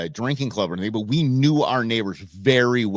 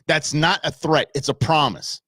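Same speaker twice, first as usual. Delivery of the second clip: menacing promise; 4 semitones higher than usual. Retold or imitated. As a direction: lean in and lightly menace each word. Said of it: "gets in her face".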